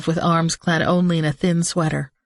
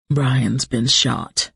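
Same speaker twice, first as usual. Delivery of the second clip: grim and slow; 4 semitones lower, much slower than usual. Acted.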